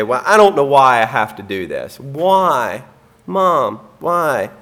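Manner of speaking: mock-whining child, pitch jumping up on Mom; whiny child. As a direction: whine it like a kid pleading with Mom. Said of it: "they're grumbling and complaining".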